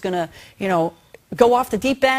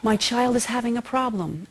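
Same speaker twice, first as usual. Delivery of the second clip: mantra. Shown as a demonstration. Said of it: "I actually recommend a mantra".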